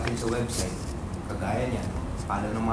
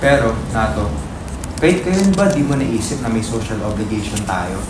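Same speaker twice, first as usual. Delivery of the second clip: loud, earnest appeal; impassioned plea; 6 dB louder than usual. Acted. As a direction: plead passionately for the truth. Impassioned plea about social duty.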